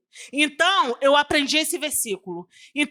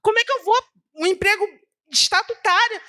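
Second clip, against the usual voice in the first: higher, pleading, close to tears; retold tearful plea; 7 semitones higher than usual. A woman retelling how she cried to God over her job, tearful plea. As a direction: beg God through tears, pitch raised. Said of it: "E eu comecei a chorar".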